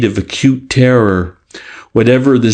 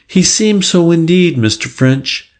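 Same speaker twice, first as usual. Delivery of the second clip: higher voice with a slight Lancashire lilt; hint of Lancashire; 7 semitones higher than usual. A narrator's reading. Nervous girl answers the inspector, hint of Lancashire. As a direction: lightly suggest a Lancashire accent. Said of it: "a suggestion of Lancashire in her accent".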